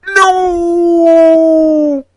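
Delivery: high, loud mock-indignant no; a loud playful no; emphatic no. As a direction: fling it out like an obvious denial. Joking disclaimer, emphatic answer.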